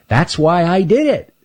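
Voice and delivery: high, pleased critter voice; proud little grin in the voice; Stanley's voice. Acted. Stanley tells Earl why he hid the candy, high and pleased.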